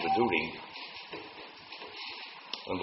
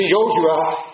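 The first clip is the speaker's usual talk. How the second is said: high, loud drawn call; 11 semitones higher, 9 dB louder than usual. Acted. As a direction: call the name across the camp. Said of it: "Heel de dag riepen ze". (hoog en luid roepen)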